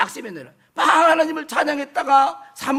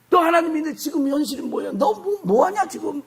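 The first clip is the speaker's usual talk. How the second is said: quick, higher-pitched acted jeer; mocking taunt; 4 semitones higher than usual. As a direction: fire off scornful questions, imitating a mocker. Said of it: "막 이렇게 막 조롱하는 거예요". (빠르게 조롱하는 흉내)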